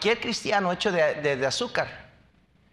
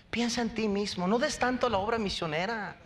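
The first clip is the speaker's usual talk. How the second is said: soft persuasive voice; 3 semitones higher, 5 dB quieter than usual. Retold or imitated. Voicing a discouraging acquaintance.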